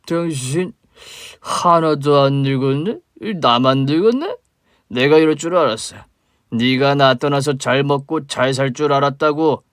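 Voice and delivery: put-on slow, slurring drunk man, bitter and loud; a sloppy drunk spitting out old grudges; drunk father. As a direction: drunk father accusing the woman he mistakes for his wife. Drunk father confronts ex-wife.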